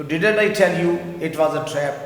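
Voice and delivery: slow, deliberate reading of the English example; teacher modelling a sentence slowly; slow model sentence. Shown as a demonstration. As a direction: read it out slowly for learners. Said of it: "Urdu میں میں نے کہا تھا".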